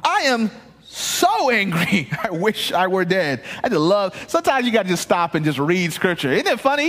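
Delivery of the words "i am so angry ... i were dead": slow, mock pouting, ending in a laugh; sulking Jonah. Pastor mocking Jonah's sulk at God, slow and hammed-up. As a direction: pout it out melodramatically. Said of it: "He's just arguing with God".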